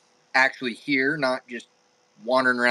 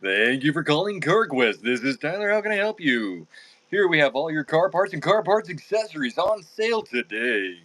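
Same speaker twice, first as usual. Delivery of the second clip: customer service voice. Pretend. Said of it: "in your customer service voice".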